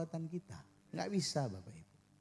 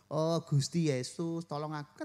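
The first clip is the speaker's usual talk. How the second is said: put-on Javanese accent. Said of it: "kita pakai logat Jawa".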